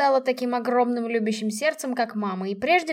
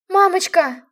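loud, higher desperate call; yelling; 7 semitones higher, 8 dB louder, slower than usual. A narrator's reading. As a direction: cry out as you run to her. Daughter rushing to her mother.

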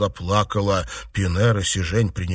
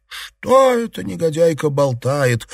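shocked exclamation; 8 semitones higher, 3 dB louder than usual. A narrator's reading. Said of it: "вскричали Си Жень и Пинер".

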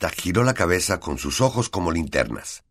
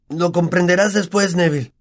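Ron consoling; 12 semitones higher, 4 dB louder than usual. A narrator's reading. Ron consoles frozen Neville.

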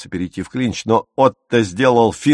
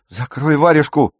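higher, louder shout; angry shout; 6 semitones higher, 4 dB louder than usual. A narrator's reading. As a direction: yell her into silence. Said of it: "крикнул Пауль".

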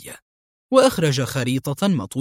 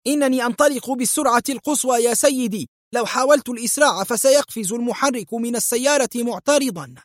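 worried; 9 semitones higher than usual. Acted. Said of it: "في قلق".

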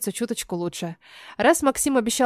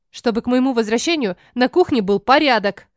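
stern warning; 5 dB louder than usual. Acted. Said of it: "Грожу пальчиком дочкам".

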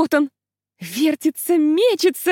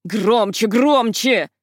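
furious bark; 4 dB louder, much slower than usual. Acted. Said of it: "ярилась мисс Латроп".

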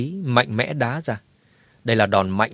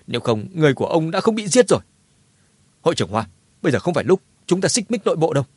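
flustered excuse; 4 semitones higher, faster than usual. Acted. Panicked excuse, blaming the enemy.

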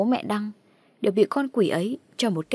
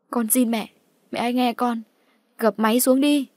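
pleading; 4 semitones higher, 3 dB louder than usual. Acted. Begging mother to hang up.

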